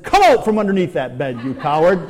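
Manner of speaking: a hammed-up wife yelling under the bed; wife ordering her husband out from under the bed, mock scolding. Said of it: "she said".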